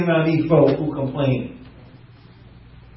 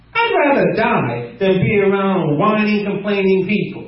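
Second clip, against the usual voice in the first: mock weary Moses; 5 semitones higher than usual. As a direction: drag it out like a worn-out Moses. Repeats Moses, slow.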